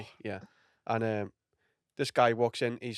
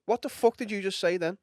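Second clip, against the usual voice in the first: angry comic; 8 semitones higher than usual. Retold or imitated. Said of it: "And he went".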